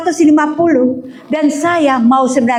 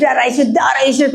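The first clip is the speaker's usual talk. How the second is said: fervent rebuke. Retold or imitated. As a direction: call out the blood of Jesus forcefully. Rebuking illness in prayer.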